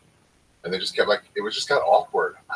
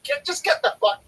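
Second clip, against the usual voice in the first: high, shouted get out; imitated yell. Comic yelling at the complaining couple. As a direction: bark them out of the club. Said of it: "And then you're like".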